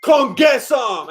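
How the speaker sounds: drawn-out, slow growl of a taunt; mock tough-guy dare; slow menacing taunt. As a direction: lean in and dare them, slowly. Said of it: "he's like".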